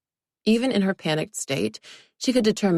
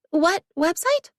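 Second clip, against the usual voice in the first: higher, slow nervous question; 12 semitones higher, 3 dB louder, slower than usual. Acted. Olivia nervously asks her naked boss. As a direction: ask it as if caught out. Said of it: "she asked nervously".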